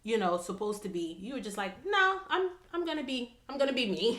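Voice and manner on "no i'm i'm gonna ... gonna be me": high, bright burst of "I'm gonna be me", laughing at the end; defiant declaration. Retold or imitated. Host voicing the guest's defiance, playful and emphatic. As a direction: play it as a gleeful declaration of independence.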